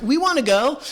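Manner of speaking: put-on high whiny chorus of kids; mock whiny teens. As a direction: beg like eager teenagers. Teens begging to come along.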